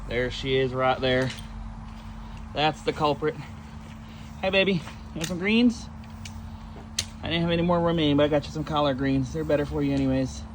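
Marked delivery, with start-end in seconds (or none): 4.4-5.9 higher, lilting coaxing of a pet; pet talk. Real, not acted. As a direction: coax a pet with a rising question. Calling his tortoise to eat.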